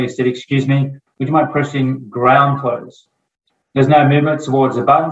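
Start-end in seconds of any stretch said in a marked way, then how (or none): 0.3-3.1 very calm and nice. Retold or imitated. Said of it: "So I said very calmly, very nicely".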